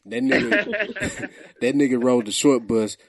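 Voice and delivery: laughing through the words. Real, not acted.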